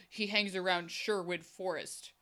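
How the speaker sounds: lightly voiced solemn informant, slowing right down; slow dramatic reveal. Tongueless guy names the outlaw, slow mock-dramatic reveal.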